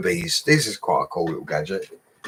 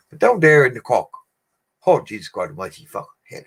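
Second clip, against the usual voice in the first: mock Irish accent; 4 semitones higher than usual. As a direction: tease the Cork lads in a hammed-up Irish voice. Teasing Irish put-on.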